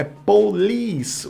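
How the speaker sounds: "police" punched on the final "-lice"; stress on second syllable. Shown as a demonstration. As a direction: demonstrate "police", stressing the "is" sound. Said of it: "a sílaba tônica tá no is".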